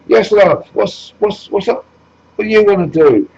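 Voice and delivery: butter her up, love; fawning charmer. Acted. Jesus Farage greets a woman migrant, hammed-up fawning.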